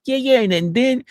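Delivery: high, insistent imitation of a caller; mock eager accuser. Accuser recalling the dinner they cooked, high eager mock voice.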